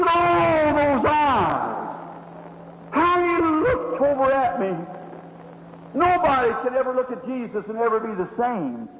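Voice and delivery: remembering his gaze, half-overwhelmed; a touch of awe. Retold or imitated. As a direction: cry out the first oh, then hush. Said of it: "She said".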